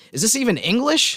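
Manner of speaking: high, baffled question; mock baffled reader. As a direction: play the confused reader. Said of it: "everyone's like".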